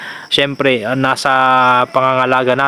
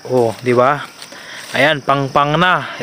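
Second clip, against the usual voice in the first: out of breath; slower than usual. Real, not acted. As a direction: still panting, slow words. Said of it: "Humihingal ako guys".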